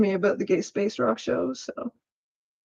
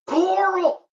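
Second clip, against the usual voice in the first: loud call; 9 semitones higher, 3 dB louder than usual. Retold or imitated. Yelled quote before Carl line.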